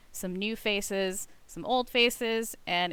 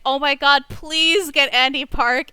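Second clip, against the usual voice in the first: excited fans; 4 semitones higher, 10 dB louder than usual. Retold or imitated. Imitating the fans' eager pleas.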